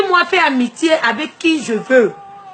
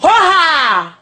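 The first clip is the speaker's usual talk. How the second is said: a loud, higher "Ho ha!" war cry; shouted cry; 4 semitones higher, 4 dB louder than usual. Real, not acted. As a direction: throw it out as a rallying call. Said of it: "Je crie ça".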